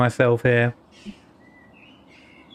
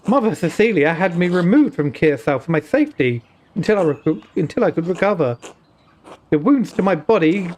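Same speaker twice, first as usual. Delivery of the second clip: put-on Indian accent. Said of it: "an Indian accent".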